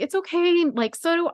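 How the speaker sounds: high, gentle mock reassurance; overly sweet cop voice; mock soothing officer. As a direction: imitate the officer calming her. Mimicking officer.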